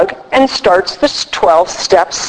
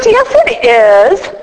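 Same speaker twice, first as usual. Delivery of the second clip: mock stern retort; 4 semitones higher, slower than usual. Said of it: "that's how I talk to her".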